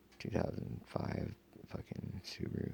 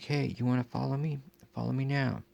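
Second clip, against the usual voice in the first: loud call across a field, raised high; yelling out; 8 semitones higher, 6 dB louder than usual. Retold or imitated. Man yelling across a field at the people tailing him, loud and high. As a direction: shout it across the field at the followers. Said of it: "so I yell out across the field".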